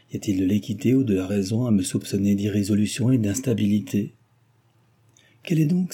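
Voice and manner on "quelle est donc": a high outcry; exclaiming. A narrator's reading. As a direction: burst out at him, much higher. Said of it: "s'écria-t-elle".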